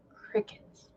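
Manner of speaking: unvoiced whisper; whispered crickets. Real, not acted. Telling viewers in a whisper the CDC stayed silent.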